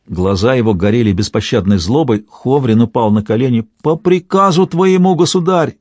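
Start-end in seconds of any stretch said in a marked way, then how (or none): 3.8-5.8 high, frightened outcry; kneeling boyar cries out in fear; trembling cry. A narrator's reading. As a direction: cry out in terror on your knees. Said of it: "дрожащим голосом выкрикнул он".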